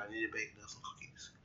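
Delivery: words stretched by a yawn. Real, not acted. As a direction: talk through a yawn. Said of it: "I apologize yet again for yawning".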